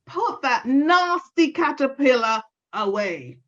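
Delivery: high, scolding granny voice; vexed granny. Acted. Granny scolding Lorna about the caterpillar, angry and high. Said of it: "She always got vexed and angry and said".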